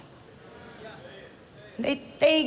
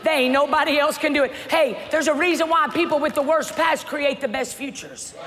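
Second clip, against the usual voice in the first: preaching at full force; 3 semitones higher than usual. Acted. Preacher rousing the congregation, full force.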